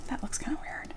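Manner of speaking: soft whispered aside to herself; muttered aside. Real, not acted. Streamer fixing her camera angle, whispered to herself. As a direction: breathe it under her breath, half to yourself.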